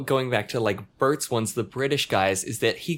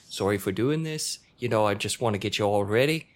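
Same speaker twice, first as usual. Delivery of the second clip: timid apology; 4 semitones lower than usual. Retold or imitated. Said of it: "apologizing all the time".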